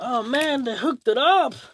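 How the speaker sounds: very high, thrilled, excited burst. Reacting to replacement gear a company sent, really excited. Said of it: "I'm really excited right now".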